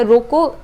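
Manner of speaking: रोको said forcefully as a separate word; stress on रोको. Shown as a demonstration. Teacher names the stressed word, saying रोको forcefully. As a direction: punch रोको on its own. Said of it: "हम लोग बोल रहे हैं तेज से".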